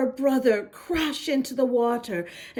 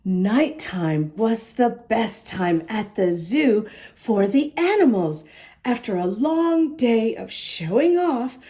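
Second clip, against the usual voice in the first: lively read-aloud storytelling voice; story narration; 2 semitones lower than usual. A narrator's reading. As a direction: read it like a picture book to kids. Reads story aloud to children.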